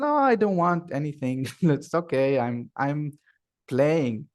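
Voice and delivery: a hint of a child saying no; child brushing off a call; lightly voiced child. Acted child refusing the midwife's call.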